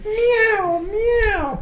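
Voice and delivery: high-pitched cat meow. Acted. Cat break jingle.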